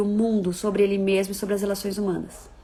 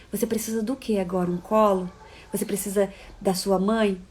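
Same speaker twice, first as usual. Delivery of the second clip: soft, tender and unhurried, a touch quieter; gentle teacher comforting child; 4 dB quieter than usual. Acted. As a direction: cradle a hurting little one with your voice. Teacher soothing a crying child. (professora acolhendo a criança com voz suave e carinhosa)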